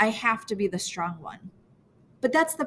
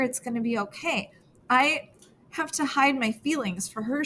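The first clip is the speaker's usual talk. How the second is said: higher, tear-strained pleading between heaving breaths; sob-choked outburst; 5 semitones higher than usual. Acted. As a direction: force the words out through the sobs. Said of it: "It bursts out of me".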